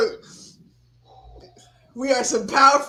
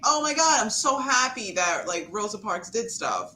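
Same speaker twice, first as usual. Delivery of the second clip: mock gushing. Co-host acts out celebrating Rosa Parks, mock gushing. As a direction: put on mild gushy delight, then let it drop. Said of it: "are we just saying".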